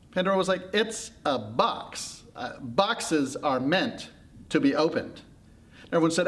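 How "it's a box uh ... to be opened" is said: very slow, spelled-out retort; insistent argument. Acted. Pandora arguing with everyone, with slow insistence. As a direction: state the obvious, one word at a time.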